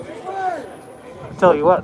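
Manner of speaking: put-on slow, high hillbilly accent drawl. Streamer drops into his hillbilly accent for viewers. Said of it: "Usually it's kind of a hillbilly thing".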